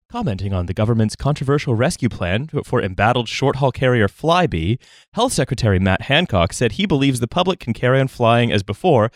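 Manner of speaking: formal news anchor read; newscaster. Shown as a demonstration. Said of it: "to sound like a newscaster".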